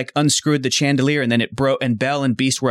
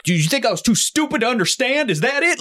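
mock yelling; 10 semitones higher than usual. Goofy confronting his son, imitated mock yell. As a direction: imitate an indignant yell, pitched way up. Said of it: "he's yelling at him".

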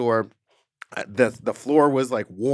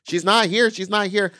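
shouting; 9 semitones higher, 5 dB louder than usual. Retold or imitated. Answering man screaming at door.

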